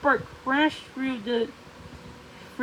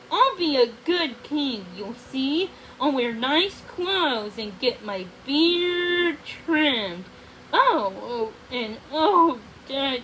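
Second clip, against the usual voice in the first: hushed and awestruck. Acted. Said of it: "Rothbard's voice was hushed and awestruck".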